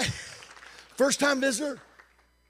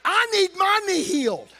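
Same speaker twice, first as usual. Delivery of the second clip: eager visitor; 10 semitones higher, 5 dB louder than usual. Retold or imitated. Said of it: "and he said".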